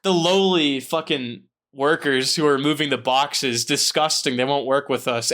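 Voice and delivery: a light mock of a sneering snob; snobbish sneer. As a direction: sniff at the lowly workers. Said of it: "he was just like".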